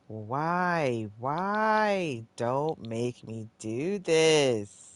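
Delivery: drawn-out, whining plea; exasperated pleading. Real, not acted. Player begging the game not to force a restart, pleading. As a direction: stretch each word into a frustrated plea.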